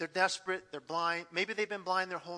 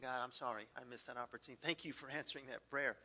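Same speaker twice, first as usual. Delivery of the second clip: sorry prayer; 7 semitones lower, 11 dB quieter, faster than usual. Retold or imitated. Retold quiet repentant prayer.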